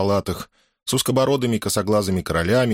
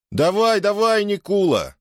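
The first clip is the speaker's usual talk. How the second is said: eager urging; 12 semitones higher than usual. A narrator's reading. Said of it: "стали просить со всех сторон".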